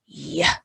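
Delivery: short "yuh" pushed out; shot-putter effort sound. Shown as a demonstration. Teacher mimics throwing heavy shot, effortful yuh. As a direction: release "yeah" like heaving a heavy ball. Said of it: "is the shot putter sound".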